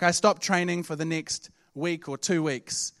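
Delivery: ordinary talk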